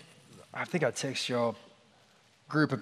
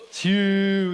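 loud, higher stadium cheer; loud, higher cheer for Hugh; crowd call-out; 4 semitones higher, 6 dB louder than usual. Retold or imitated. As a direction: call his name like fans after a touchdown. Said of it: "calling out".

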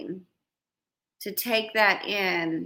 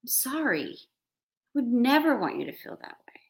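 caring apology; 4 semitones higher than usual. Retold or imitated. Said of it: "you automatically say".

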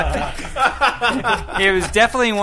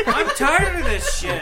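mock whining; 9 semitones higher, slower than usual. Mock complaint about rigged game.

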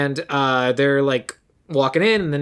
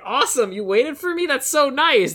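mock flirty Marnie; 9 semitones higher than usual. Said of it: "she's just like".

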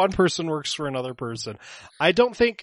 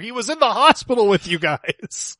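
exasperated; 8 semitones higher, 7 dB louder than usual. Acted. In-character argument, raised voice.

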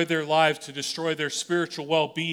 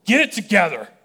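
"Get it together" shouted much higher and louder, hard on "it"; yelling at yourself; 6 semitones higher, 8 dB louder than usual. Retold or imitated. Preacher shouting at himself in the mirror, full exasperated yell. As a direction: bark "Get it together" at your own reflection. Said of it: "just yell".

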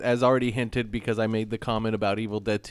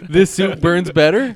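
Lisa backwards speech; 6 semitones higher, 9 dB louder, slower than usual. Retold or imitated. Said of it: "Lisa in Who Shot Mister Burns".

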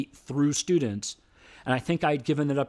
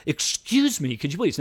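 higher, pushy excuse me with an edge; excuse me with attitude; 4 semitones higher than usual. Retold or imitated. Woman interrupting the speech, with attitude. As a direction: demand it like she's owed an answer. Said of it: "now she's got an attitude".

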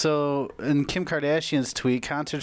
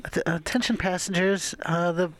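airport announcement; 4 semitones higher than usual. Pretend. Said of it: "So this would be like".

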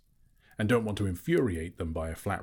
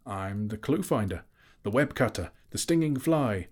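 boasting Bilbo; 3 semitones higher than usual. Acted. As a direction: build up each title.

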